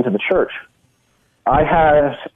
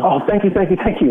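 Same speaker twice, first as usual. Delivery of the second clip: higher-voiced, eager thanks in quick repeats; very thankful; 5 semitones higher than usual. Forgiven client thanking the speaker, so thankful. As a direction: imitate a gushing, grateful client, pitched up. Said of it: "he was so thankful".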